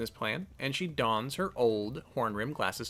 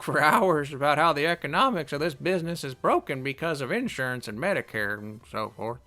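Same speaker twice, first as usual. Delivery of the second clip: put-on old lady voice. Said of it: "we can do an old lady voice".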